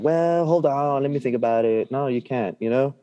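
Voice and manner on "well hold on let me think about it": mock indecisive. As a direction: imitate someone drawing out a hesitation. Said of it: "why have that attitude of".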